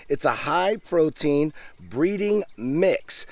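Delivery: breeding slowed and leaned on; stress on breeding. Shown as a demonstration. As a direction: hit the word breeding, slow and deliberate. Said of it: "I emphasize the word breeding".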